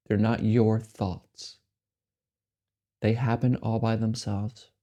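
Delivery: unhurried meditation guidance with long silences between phrases; measured, spacious delivery, letting each phrase settle; guided meditation. Acted. Meditation guide helping listeners accept the mind as it is, unhurried guidance.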